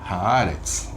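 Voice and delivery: Haaretz with the stress on the first A, ha-A-retz. Shown as a demonstration. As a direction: lean on the first of the two As in Haaretz. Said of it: "a sílaba tônica fica na primeira".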